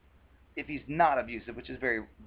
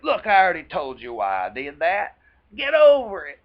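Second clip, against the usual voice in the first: angry outburst; 3 semitones higher, 12 dB louder than usual. Retold or imitated. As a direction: blow up at her for bringing it up again. Abuser snaps when confronted.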